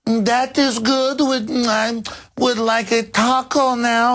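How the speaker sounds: high, very slow fake Mexican accent; mock Mexican accent. Phony diner talking to restaurant server, mock Mexican accent. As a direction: drag it out in a put-on Mexican accent. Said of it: "where you go to a Mexican food restaurant".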